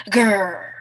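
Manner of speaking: small pretend "grrr"; short playful growl; little mouse growl. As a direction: growl like a mouse playing tiger. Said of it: "He's got a little grrr".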